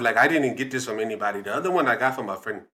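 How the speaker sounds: put-on emphatic African-accented storyteller. Dad claims the quote as his, African accent. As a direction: explain proudly in an African accent. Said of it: "African accent".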